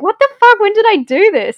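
high, loud startled outburst; shocked disbelief. Retold or imitated. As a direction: blurt it out in shock. Shocked finding the recording.

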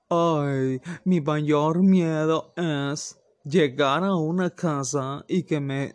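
drawn-out, slow mock complaint; fussy meme poster. Picky guest fretting over food served at someone's house, slow mock whine. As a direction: dramatise a picky eater's dread, dragging the words. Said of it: "esa persona que publica esos memes de".

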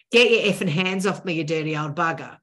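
a loud snapped insult on the first half, then settling back; mock angry outburst. Shown as a demonstration. Showing what not to say to a handsy colleague, mock angry. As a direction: lose your temper at a handsy old man, half-acted. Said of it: "without going".

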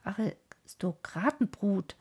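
slow, sneering schoolboy jeer; mocking taunt. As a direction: drag the insult out like a bully calling after them. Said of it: "rief uns überall nach". (langsamer, höhnischer Schimpfruf)

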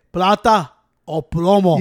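slow, drawn-out imitation of a Narco show line; Narco show intro. Quoting a rap song's opening to friends, slow Narco show imitation. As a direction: stretch it out slowly like a song intro. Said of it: "it sounds like you're in the fucking Narco show".

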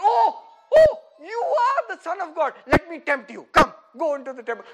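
loud, eager mock devil; hammed-up devil catching on; mock Satan realising. Preacher voices Satan, suddenly eager and loud.

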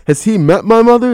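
prim teacher clutching her pearls. Retold or imitated. Teacher shocked at the kid's remark, high prim outrage. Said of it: "some forty-five-year-old teacher".

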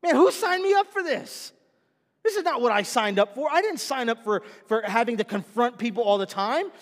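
a high, loud, whiny complaint; complaining Timothy. Retold or imitated. Timothy complaining to the congregation, high whiny voice. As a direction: whine it like an overwhelmed young pastor.

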